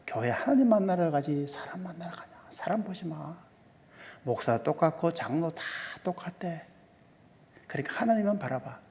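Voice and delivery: soft, half-whispered motherly advice; mother's hushed counsel. Retold or imitated. Mother to her hurt child about church fights, hushed. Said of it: "우리 어머니가 했던 말이 이거예요".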